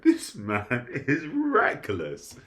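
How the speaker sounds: slow, drawn-out disbelieving aside; amused slow verdict; mock disbelief. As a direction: savour each word in amused shock. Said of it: "I was like".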